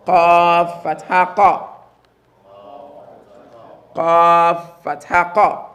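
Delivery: slow, each syllable set apart; slow drill with a clean break between qaf and fatha; slow separated spelling. Shown as a demonstration. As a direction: keep the two F sounds clearly separate. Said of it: "I want you to separate the two F sounds".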